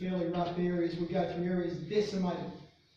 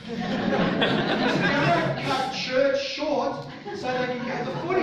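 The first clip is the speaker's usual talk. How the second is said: laughing; 7 semitones higher, 10 dB louder than usual. Real, not acted. Laughing at the football-mad reverend.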